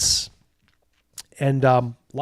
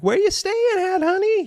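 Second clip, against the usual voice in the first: much higher, sultry come-on; streetwalker call. Acted. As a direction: call out in a high teasing voice. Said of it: "they're like".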